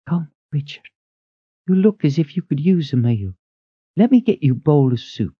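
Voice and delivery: high, brisk woman's voice; thin head cook. A narrator's reading. Head cook rushes in asking who calls, high. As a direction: ask it sharp and high.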